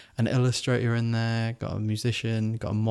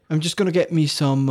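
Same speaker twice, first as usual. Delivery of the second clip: higher-pitched, faltering go at Geordie; attempted Geordie accent; 5 semitones higher, 3 dB louder than usual. Shown as a demonstration. Copying a friend's sample, shaky attempt at Geordie accent. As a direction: try a Geordie accent and lose it. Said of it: "can I do a Geordie accent".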